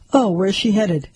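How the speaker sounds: hushed curious question; whisper. Acted. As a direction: whisper it like a nosy neighbor. Super's wife asks, whispered.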